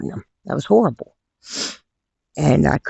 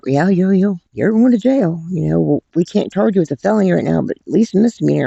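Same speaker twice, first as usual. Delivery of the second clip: imitating the officer; 5 semitones higher than usual. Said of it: "I was like".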